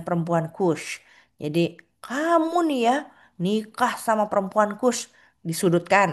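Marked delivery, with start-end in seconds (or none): 2.0-5.0 high, reproachful jab at a brother; accusing sister, raised pitch; mock accusing. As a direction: needle him about his marriage, pitch up. Siblings accusing Moses over marriage.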